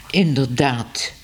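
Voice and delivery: slow, strained through a forced smile. Acted. Ellemeet answering Smit through a forced smile. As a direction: agree while hiding annoyance, slowly. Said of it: "met een moeilijke glimlach".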